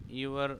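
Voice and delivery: EWER shown as "यूअर"; pronunciation demo. Shown as a demonstration. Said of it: "इसका pronunciation है".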